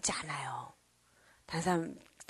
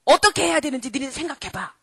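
put-on 1 child leader; 2 semitones higher, 4 dB louder than usual. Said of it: "그랬더니".

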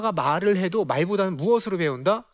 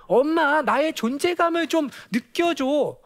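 put-on pleading child; 8 semitones higher, slower than usual. Child wanting mother to notice them, pleading. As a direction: stretch it out, calling for mom's attention. Voices a child's hidden plea.

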